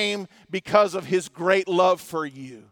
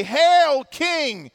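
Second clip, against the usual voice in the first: mocking soldiers; 4 semitones higher than usual. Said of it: "they continue in their mocking and they say".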